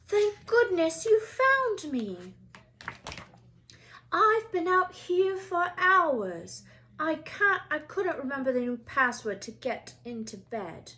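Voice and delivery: high, slow, teary relief; cling to your rescuers; relieved Neville. Acted. Frightened Neville found at night.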